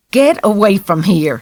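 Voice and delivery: put-on a boy screaming at the priest to get away; screamed. A narrator's reading. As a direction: yell at the priest to leave. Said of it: "Jared screamed".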